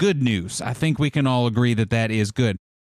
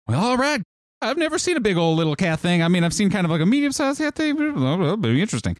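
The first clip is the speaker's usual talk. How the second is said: put-on excited old healer voice; 5 semitones higher, faster than usual. NPC healer rambling to himself.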